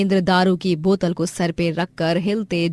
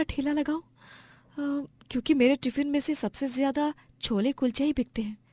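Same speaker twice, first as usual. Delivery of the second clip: higher, musing voice with pauses; thinking aloud; 4 semitones higher than usual. Acted. Wife plans a food stall, musing aloud. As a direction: work out an idea to yourself. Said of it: "वो सोचती है".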